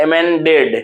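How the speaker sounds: अमेंडेड with the stress on its second part "मेन". Shown as a demonstration. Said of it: "उस दूसरे part पर क्या लगेगा, stress लगेगा". (अमेंडेड में दूसरे हिस्से "मेन" पर ज़ोर)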